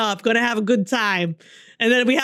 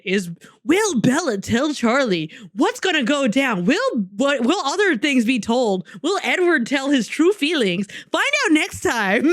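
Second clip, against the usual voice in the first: playful teaser voice-over, building to the sign-off; mock cliffhanger announcer. Podcast host teases the next chapter, mock announcer. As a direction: tease the next episode like a serial narrator.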